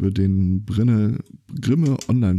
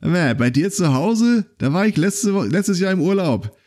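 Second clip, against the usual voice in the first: pub regular; 9 semitones higher than usual. Retold or imitated. Regular at a Berlin pub talks to the Persian, high and hearty. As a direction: play the chummy bar regular leaning in. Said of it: "irgendeiner von den Typen gesagt".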